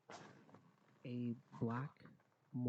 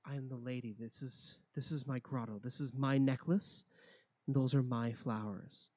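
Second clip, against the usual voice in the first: growing louder and grander; proud declaration; 7 dB louder than usual. Acted. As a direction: claim it all, building up. Lady claims grotto, rising.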